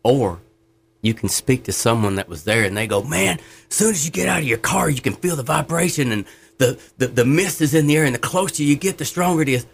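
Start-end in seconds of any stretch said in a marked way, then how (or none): 3.0-9.6 higher, wide-eyed retelling of the falls; breathless tourist wonder, imitated; awed eyewitness. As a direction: gush like you just stood at Niagara. Eyewitness describing Niagara Falls.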